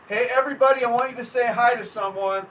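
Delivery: rally the chat to greet someone; excited call. Real, not acted. Streamer excitedly calling viewers to greet a guest, loud and bright.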